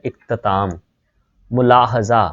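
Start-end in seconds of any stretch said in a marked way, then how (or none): 0.1-0.7 इख्तिताम as ikh-ti-taam, short i twice; correct pronunciation demo. Shown as a demonstration. Teacher showing both vowel marks, careful demo of इख्तिताम as ikh-ti-taam. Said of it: "ते के नीचे भी ज़ेर है".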